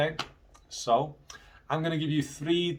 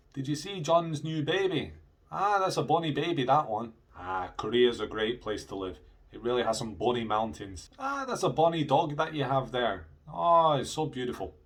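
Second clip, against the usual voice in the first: Scottish examples; 2 semitones higher than usual. Shown as a demonstration. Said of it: "how they say that in Scotland".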